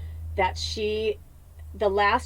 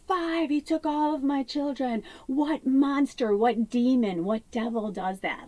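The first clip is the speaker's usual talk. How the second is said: anguished; 5 semitones higher than usual. Retold or imitated. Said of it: "She's like".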